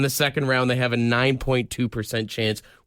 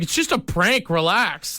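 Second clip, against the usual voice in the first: lightly mocked prankster, pitched up; a hint of lame prank-video host; lame YouTuber; 4 semitones higher than usual. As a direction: imitate a YouTuber brushing it off, higher at first. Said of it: "he sounds like one of those lame YouTubers".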